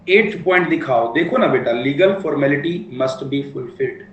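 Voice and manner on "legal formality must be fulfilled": slow dictation. Shown as a demonstration. Rereading the old point slowly.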